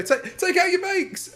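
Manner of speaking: high, loud, slow call to the tent; mock host announcement. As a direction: announce it like the presenter, slowly. Host calling out to bakers.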